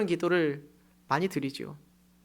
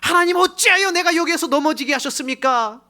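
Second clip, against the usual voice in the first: much higher and louder anguished wail; desperate cry; 10 semitones higher, 7 dB louder than usual. Acted. Believer crying out to God after falling, loud. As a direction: shout your complaint up at heaven.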